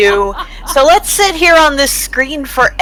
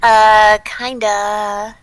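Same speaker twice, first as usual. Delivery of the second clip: put-on British accent; slower than usual. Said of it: "I've ever heard Zach like a British accent".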